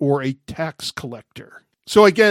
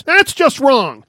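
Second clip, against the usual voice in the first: slow, high, loud offended protest; indignant, slow disapproval; 7 semitones higher, 6 dB louder, slower than usual. Retold or imitated. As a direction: drag it out, scandalised. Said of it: "did he take offense".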